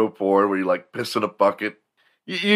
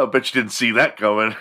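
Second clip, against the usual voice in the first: laughing; 4 semitones higher, 3 dB louder than usual. Real, not acted. Laughing after the clip.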